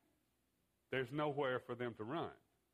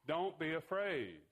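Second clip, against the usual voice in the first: slow, raised, drawn-out urging; mildly raised, deliberate proclamation; firm reassurance; 3 semitones higher than usual. Retold or imitated. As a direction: stretch it out as an encouraging command. Jesus calls out to screaming disciples.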